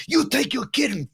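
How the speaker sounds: a high, lightly voiced heel sneer; mock heel voice. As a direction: brush the dad off in character. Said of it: "he looks at the dad".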